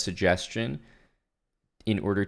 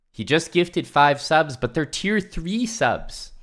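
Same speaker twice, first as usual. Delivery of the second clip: hyped up; 7 semitones higher, 3 dB louder, slower than usual. Real, not acted. Hyping a big sub gift.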